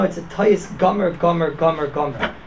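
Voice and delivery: "Gomer" repeated for emphasis, gradually falling away; emphatic repetition. Real, not acted. Teacher insisting to his students it is a total error, emphatic. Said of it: "I say it with such emphasis".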